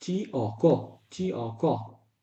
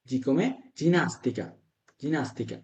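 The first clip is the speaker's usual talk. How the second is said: slow drill; 4 dB quieter, much slower than usual. Shown as a demonstration. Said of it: "teacher drills Italian word".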